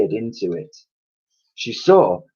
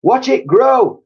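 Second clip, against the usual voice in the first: slow, high, loud triumphant shout; 8 dB louder, slower than usual. A narrator's reading. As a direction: crow it out with glee. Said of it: "shouted Mister Cranky".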